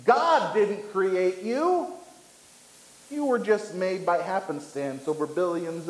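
a restrained take on the roaring lion; mild mock roar. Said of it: "The lion roars that".

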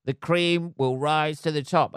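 slow, dreamy preaching of a saying; mock hippie mantra. To the audience, mocking his old self: slow, dreamy mantra. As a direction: drawl it out like a naive optimist. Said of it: "I'm one of these people who".

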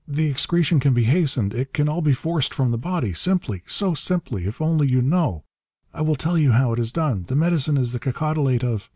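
high, stammering desperate babble; panting agony. A narrator's reading. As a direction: tumble out promises in a high panicked pitch. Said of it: "panted the master in agony".

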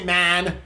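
MAN with a drawn-out A; man said with a long, tense A. Retold or imitated. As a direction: stretch the A in man. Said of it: "you've got the long A".

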